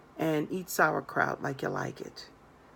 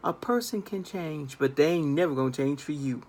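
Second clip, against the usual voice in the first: grandmother's saying; 4 semitones lower than usual. Retold or imitated. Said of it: "My grandmother used to say it like this".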